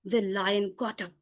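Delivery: dramatic story voice; suspenseful storytelling. Shown as a demonstration. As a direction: build up to the lion's roar.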